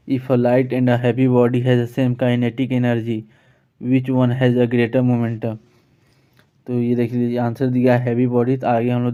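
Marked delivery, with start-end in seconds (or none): 0.1-5.6 very slow, word by word, reading the definition aloud; slow dictation reading. Shown as a demonstration. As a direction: read it out slowly so students can follow. Reads question aloud. (बहुत धीरे-धीरे पढ़कर सुनाना)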